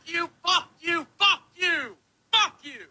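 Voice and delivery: choked furious cursing; sobbing, yelling fuck you; angry crying shout. Real, not acted. Screaming curse at Keem.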